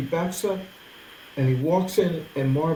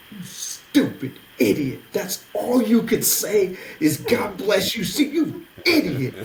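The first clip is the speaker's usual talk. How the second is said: mad at myself; 3 semitones higher, slower than usual. Retold or imitated. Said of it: "I'm mad at myself".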